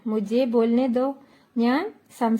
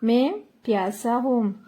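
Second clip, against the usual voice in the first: slowed-down model phrase മേ പ്യാസാ ഹൂം for the learner; slow teacher demo of മേ പ്യാസാ ഹൂം; slow repeat. Shown as a demonstration. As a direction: repeat it slowly so students catch each word. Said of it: "എങ്ങനെ പറയും?".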